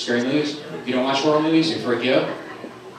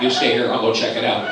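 alert dog; slower than usual. Pretend. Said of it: "She's like".

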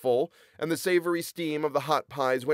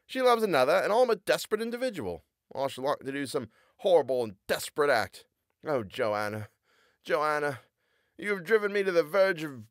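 lightly hammed lovesick young man; melodramatic lover; 5 semitones higher than usual. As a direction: sigh it out like a jilted lover. Lovesick Sam's lament.

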